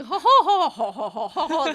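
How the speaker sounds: high, loud mock society laugh; ha-ha along like two amused old friends; put-on shared laugh. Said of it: "They laugh at the same time".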